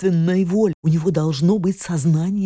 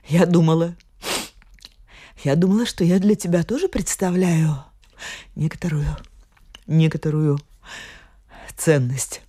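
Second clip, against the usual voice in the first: tearful; 4 semitones lower than usual. Acted. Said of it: "Слёзы послышались в её голосе".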